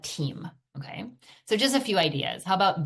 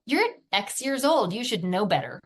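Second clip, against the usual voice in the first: scolding parent; 4 semitones higher than usual. Retold or imitated. Mom scolding her young son, exasperated. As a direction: nag a six-year-old like a fed-up parent. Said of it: "How about".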